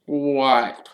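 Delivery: high, drawn-out sulky question; sulky Myrtle. A narrator's reading. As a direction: answer in a high pout. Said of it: "she said sulkily".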